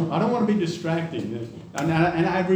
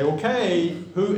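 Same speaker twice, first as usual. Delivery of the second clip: raised, louder questioning parent; parent demanding answers; 4 semitones higher, 4 dB louder, slower than usual. Retold or imitated. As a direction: call out who did it. Parent questioning kids over breakage.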